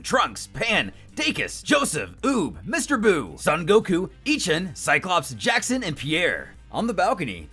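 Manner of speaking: plain reading voice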